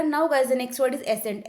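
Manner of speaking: very slow, each word spaced out; slow word announcement. Shown as a demonstration. Teacher announcing the next word to students, slow and deliberate. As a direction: announce the new word slowly and clearly.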